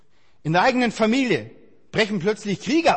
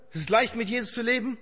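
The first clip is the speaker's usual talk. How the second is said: said lightly, as if it were obvious; preacher mocks the easy-faith claim to the congregation, in a light ironic tone; 4 dB quieter than usual. Shown as a demonstration. A breezy false assurance. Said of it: "Darf ich, darf ich".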